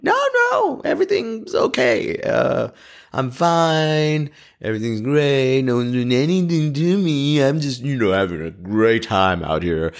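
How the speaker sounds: very high, falsely cheerful reassurance; forced cheery voice. Retold or imitated. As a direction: insist everything is fine, overly bright and high. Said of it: "came on a video and went".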